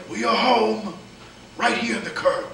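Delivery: high, loud mock tour-guide call; loudly announcing the drop-off at the curb; mock announcement. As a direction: sing it out like a bus driver. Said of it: "I'd be like".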